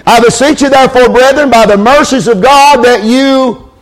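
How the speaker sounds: "present" held apart after a pause; pause, then land "present" firmly; stress on present. Shown as a demonstration. Preacher leaning on "present" in Romans twelve. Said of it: "I'm gonna emphasize a word in that verse".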